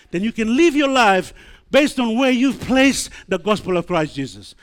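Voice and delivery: loud, high, punchy preaching; forceful preaching. Real, not acted. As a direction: drive each phrase out. Preacher climaxes on the heart.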